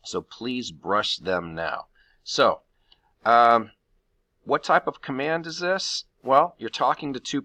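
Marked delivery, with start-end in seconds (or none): 0.2-1.9 very slow and a bit softer, each word separate; very slow model sentence. Shown as a demonstration. Teacher repeats the command for students, very slow and soft. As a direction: drag it out word by word for the class. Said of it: "come up with the command here".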